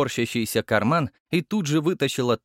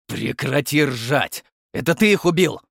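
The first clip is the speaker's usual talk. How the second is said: put-on captain yelling at the boy; shouted; 3 semitones higher, 4 dB louder than usual. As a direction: bark at the laughing kid. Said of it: "выкрикнул Гаврилов".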